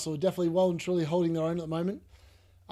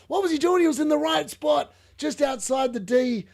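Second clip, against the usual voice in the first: exasperated; 7 semitones higher, 3 dB louder than usual. Real, not acted. Exasperated at the miss.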